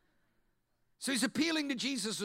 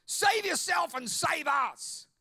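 mock jeering shout; 2 semitones higher than usual. Thief on the left screaming a taunt at Jesus. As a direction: sneer and demand he save himself. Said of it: "screaming at him".

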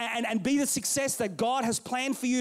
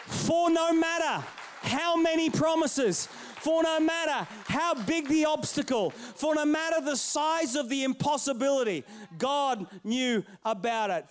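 preaching. Acted. Preaching scripture.

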